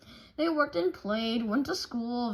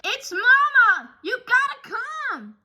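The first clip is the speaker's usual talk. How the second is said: shouted alarm; 13 semitones higher, 11 dB louder than usual. Acted. Brother running to papa in the woods, loud alarmed shout. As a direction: yell for help, out of breath. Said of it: "shouted Brother".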